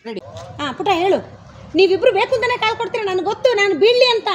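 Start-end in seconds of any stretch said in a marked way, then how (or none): 1.7-4.3 loud accusing line. Shown as a demonstration. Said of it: "ಜೋರಾಗಿ ಹೇಳು ಪುಟ್ಟ".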